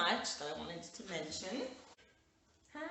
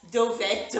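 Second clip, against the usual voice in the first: toddler imitation; 4 semitones higher, 11 dB louder than usual. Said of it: "she asked my husband in dialect".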